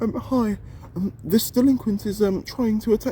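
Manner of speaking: over-the-top, very high, exaggerated posh British accent. Mocking how Americans imitate British speech: exaggerated posh British accent. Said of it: "when Americans want to do our British accent, they want to be very push".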